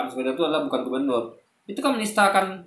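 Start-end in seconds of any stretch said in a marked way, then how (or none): 0.1-1.2 rattled off fast, a brisk denial; quick dismissive quote. Retold or imitated. Quoting the other side's denial, fast and brisk. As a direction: fire off the opposing claim quickly. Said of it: "mereka katakan".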